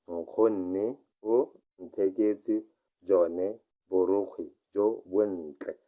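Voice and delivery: very slow dictation pace; very slow repeat. Shown as a demonstration. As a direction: stretch out Nkgonne o ntheketse jone for learners. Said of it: "teacher repeats it very slowly".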